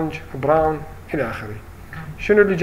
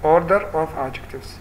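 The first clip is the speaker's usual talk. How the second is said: slow title read; much slower than usual. Shown as a demonstration. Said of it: "أنا سميت المقطع لكم".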